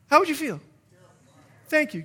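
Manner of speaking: normal talking voice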